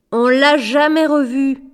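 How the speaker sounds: choked up. A narrator's reading. Boy speaks of the father who left, choked up. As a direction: push it out past a lump in the throat. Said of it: "avec un gargouillis dans la gorge".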